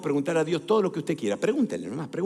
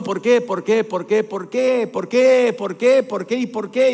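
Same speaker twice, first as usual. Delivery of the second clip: rapid-fire string of questions, building louder; insistent questioning; 3 semitones higher, 5 dB louder, slower than usual. Acted. David keeps asking God why, insistent and building. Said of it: "Él le preguntó".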